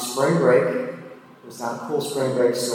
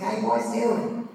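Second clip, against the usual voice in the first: a hammed-up Southern lady, higher; bad Southern accent; 10 semitones higher than usual. Officer greeting the boys, mock Southern accent. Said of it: "bad Southern accent to, like, mock her".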